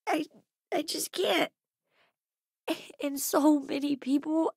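halting words with long pauses; upset, faltering. Acted. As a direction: struggle to get the words out. Grieving, words breaking off.

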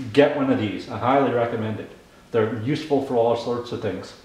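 chewing gum while talking; mouth full. Real, not acted. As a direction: talk around a wad of gum. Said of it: "Talking like I have marbles in my mouth 'cause I'm chewing gum".

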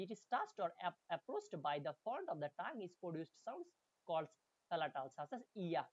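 slow, careful English text reading; slow reading aloud. Shown as a demonstration. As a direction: read each word out slowly for students. Reads English text slowly. (ধীরে ধীরে পড়ে শোনানো)

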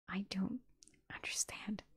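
faint, halting whisper. A narrator's reading. Confused Nefis answering Sunny's accusation, whispered. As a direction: whisper it with a break midway. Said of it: "then whispered".

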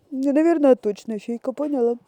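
insistent and loud; firm. Real, not acted. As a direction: say it firmly, like a vow. Firmly promising the puppy.

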